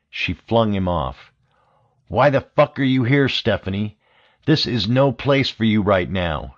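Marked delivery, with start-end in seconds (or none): 2.1-6.5 furious yell. Acted. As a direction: lose your temper at her. Russo yells at returning Stephanie.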